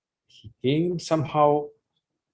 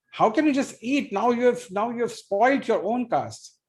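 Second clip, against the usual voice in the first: high, playful mock-scolding of neighborhood ladies; joking mock scolding; 3 semitones higher than usual. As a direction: tease the boy while pretending to be shocked. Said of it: "laughing and joking like this".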